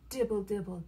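low, soft patter; raindrop patter. A narrator's reading. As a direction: patter softly like rain. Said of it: "He can sound like the rain".

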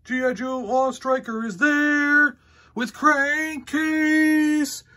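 slow booming ad voiceover; commercial announcer. Retold or imitated. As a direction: announce it like an old TV ad.

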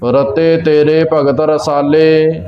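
slow, measured Gurbani recitation; slow devotional reading with long final vowels; scripture recitation. Shown as a demonstration. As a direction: recite line by line, stretching the line endings. Recites scripture between explanations.

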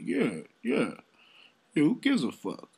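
loud, high mock yes-man; mock agreement. Imitating the other dude agreeing along, mock eager. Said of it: "He was agreeing with him".

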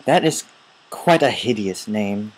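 mock English accent, disdainful words; put-on English accent. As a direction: sniff at it in fake English accent. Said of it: "an English accent".

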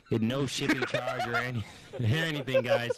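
breaking into laughter mid-line; can't keep it together; after laughing hard. Real, not acted. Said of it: "I can't even say it".

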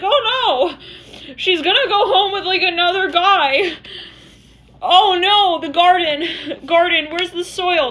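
high, loud, laughing panic; freaking out. Acted. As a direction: wail it in mock panic. Someone freaking out.

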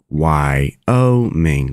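"Wyoming" in three parts, why, oh, ming; teacher's measured breakdown of "Wyoming" as why-oh-ming; separated syllables. Shown as a demonstration. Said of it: "It's like Y O Ming".

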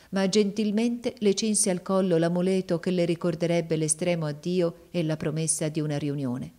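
plain reading voice

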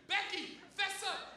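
high, slow mock demand; imitated accusing girl. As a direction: press for a confession, drawn out in a girl's voice. Girls press the accused to confess.

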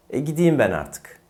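"gideyim" as gi-di-yim, conversational; correct spoken form. Shown as a demonstration. Teacher playing a guest leaving, "gideyim" as gidiyim. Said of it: "Bu doğru telaffuz".

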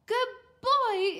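high, loud praise; overjoyed mum; delighted exclamation. A narrator's reading. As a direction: cheer a child on proudly. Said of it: "exclaimed Mum".

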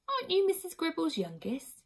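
lightly voiced, high, gentle queen; soft-voiced queen. A narrator's reading. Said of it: "she said in her soft voice".

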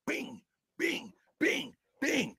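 punch sound effects. Retold or imitated. Imitates punches coming off the ropes.

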